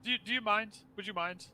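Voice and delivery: high, grand, theatrical ghostly host; flaming skull voice. Acted. Skull pleads politely.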